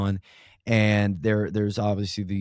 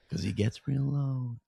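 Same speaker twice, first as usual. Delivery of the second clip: slow, softer mumble in a light Walken style; 5 dB quieter than usual. Shown as a demonstration. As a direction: drop into a soft, slow mumble. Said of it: "his mumble".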